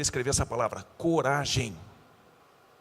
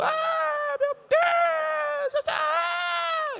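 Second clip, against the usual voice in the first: high screaming cry of terror; terrified scream; 4 dB louder, much slower than usual. Acted. Disciples screaming in terror at the ghost. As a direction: scream out like men seeing a ghost. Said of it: "E gritaram de medo".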